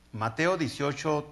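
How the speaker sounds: ordinary delivery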